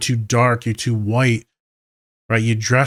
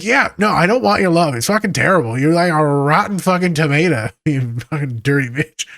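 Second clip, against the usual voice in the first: laughing mock insult; 5 semitones higher, 4 dB louder than usual. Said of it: "I'm like".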